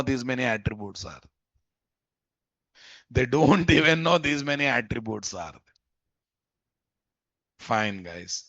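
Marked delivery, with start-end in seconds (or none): 3.1-5.5 chuckling through it; laughing. Real, not acted. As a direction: laugh mid-sentence. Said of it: "repeated with a laugh".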